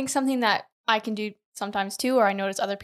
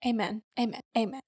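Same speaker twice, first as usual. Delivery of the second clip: mock amen; 6 dB quieter, faster than usual. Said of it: "Do it in your best prayer voice".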